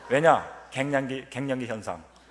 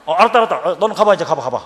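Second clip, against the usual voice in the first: louder, flustered shooing; flustered dismissal; 3 semitones higher, 10 dB louder, faster than usual. Retold or imitated. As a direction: hurry the student out, embarrassed. Flustered professor dismissing student.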